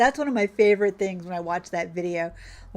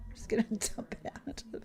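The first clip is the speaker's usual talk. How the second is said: quick, conspiratorial whisper; a fast, sneaky whispered aside; 12 dB quieter, faster than usual. Real, not acted. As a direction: whisper it like a little secret. Sneaky aside while dumping lime.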